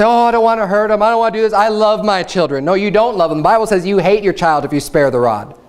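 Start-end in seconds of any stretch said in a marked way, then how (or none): 0.0-2.6 mocking soft parent. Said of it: "a parent that says".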